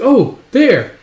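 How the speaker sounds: high, loud urgent exclamation; excited child. Retold or imitated. Child pointing out the warship, excited. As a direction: blurt it out urgently.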